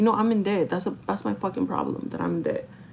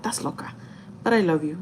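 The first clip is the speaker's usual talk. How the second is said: loving tease. Retold or imitated. Boyfriend lovingly teasing her for being crazy, loving tease. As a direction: say it lovingly, dropping almost to a murmur at first. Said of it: "in a loving way".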